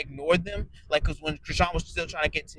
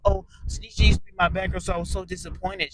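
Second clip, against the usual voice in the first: mocking Rolly; 4 semitones higher than usual. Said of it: "And you will".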